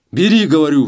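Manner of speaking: гораздо громче и выше, во всю глотку; заорать приказом; рёв. A narrator's reading. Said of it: "взревел Челкаш". (Челкаш ревёт на Гаврилу, заставляя взять деньги)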